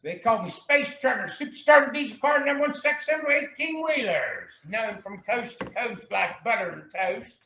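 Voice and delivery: lightly voiced, high sing-song boast; a hint of a rhyming CB-radio showman; trucker persona. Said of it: "You got the Truck Driving Hoagie".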